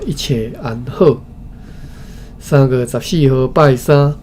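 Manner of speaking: ordinary delivery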